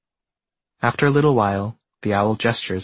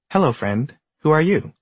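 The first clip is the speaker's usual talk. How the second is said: alien voice; 6 semitones higher than usual. Acted. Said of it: "asks the alien".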